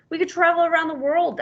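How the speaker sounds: high excited duck voice. Acted. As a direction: dream out loud like an eager duck. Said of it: "added the duck".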